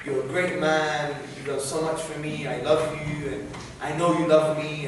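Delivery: low-key, sincere reconciliation; retold apology. Son calling his dad to apologize, sincere. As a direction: recount a heartfelt apology, gently and evenly. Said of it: "I apologized for everything".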